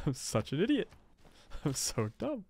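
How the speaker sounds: real amused laughter; laughing at self. Real, not acted. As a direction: laugh through the self-insult. Laughing at own mistake.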